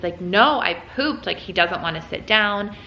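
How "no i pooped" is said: lightly voiced upset toddler, higher pitch; hint of a terrible-twos voice; upset two-year-old. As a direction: mildly imitate a toddler's upset protest. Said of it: "voice kicks in because he starts getting upset".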